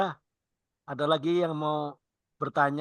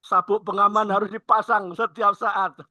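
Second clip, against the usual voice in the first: slow, higher, louder cabin announcement; flight attendant; 4 semitones higher, 4 dB louder, slower than usual. Pretend. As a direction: announce the seat belt rule to passengers. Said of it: "pramugari Garuda beda nih".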